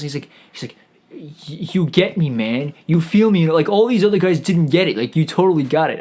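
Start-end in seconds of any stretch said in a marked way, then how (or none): 1.1-6.0 put-on Southern California accent. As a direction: play Jesus as a Southern California dude. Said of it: "talks like he's from Southern California".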